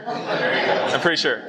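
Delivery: slow, chuckling through it; laughing. Real, not acted. Repeats the joke to the teen boys, laughing. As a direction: laugh at your own excuse. Joking about the altitude.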